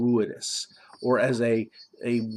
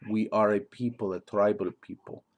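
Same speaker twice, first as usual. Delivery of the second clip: attempted Mwangi accent; 2 semitones lower than usual. Shown as a demonstration. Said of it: "I'm not perfect in my accent".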